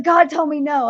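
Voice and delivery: high, sassy declaration; woman telling her friend about God's answer, sassy; sassy retort. Retold or imitated. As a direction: sass it, playful and certain. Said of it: "And I was like".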